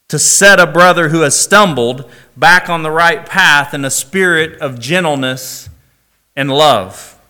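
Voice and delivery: measured, solemn Bible reading; scripture reading. Acted. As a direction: read the verses like a preacher at the pulpit. Reads scripture passages aloud.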